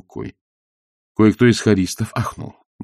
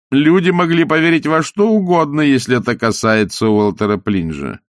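gloating; 4 semitones higher than usual. Acted. Salzella gloating.

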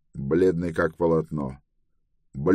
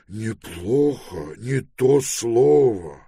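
slow, higher-pitched, smiling reply; fond old friend; 5 semitones higher, much slower than usual. A narrator's reading. Pelorat answers Trevize at parting, smiling and fond. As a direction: draw it out with a smile. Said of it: "улыбнулся Пилород".

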